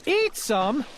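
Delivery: shocked gasped question; gasping. Acted. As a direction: gasp in disbelief. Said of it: "gasped Bartholomew".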